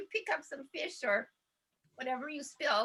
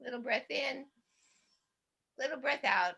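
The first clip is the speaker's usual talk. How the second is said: guided breathing. Shown as a demonstration. Leader guiding a calm breath in and out. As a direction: ease them into a breath.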